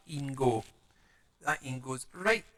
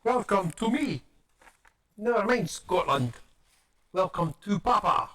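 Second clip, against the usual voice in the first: mock welcome announcement; 5 semitones higher, 4 dB louder than usual. Greeting viewers to own place, mock-grand announcement.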